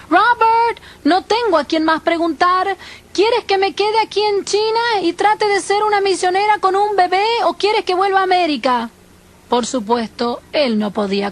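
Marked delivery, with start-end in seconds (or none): 0.1-8.9 higher, raised-pitch plea; pleading with the dead. Retold or imitated. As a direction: ask as if he might answer. Pleads at husband's grave. (súplica con voz más aguda)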